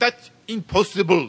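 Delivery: loud, high-pitched put-on German accent. Telling a story, quoting a man who spoke in a german accent. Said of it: "In his German accent".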